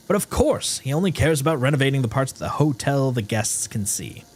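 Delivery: exasperated maintenance man's note, read expressively; dramatic note reading. Acted. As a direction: read out a fed-up worker's complaint. Reads another note in character.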